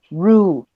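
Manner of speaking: "Rule" with a natural Spanish U, not drawn out; relaxed short U. Shown as a demonstration. Teacher tells students no es tan larga, relaxed U. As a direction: keep the U in "Rule" relaxed, not too long.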